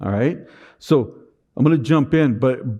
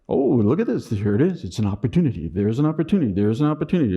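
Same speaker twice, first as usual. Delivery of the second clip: flippant sarcasm; faster than usual. Retold or imitated. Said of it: "I was just being flippant".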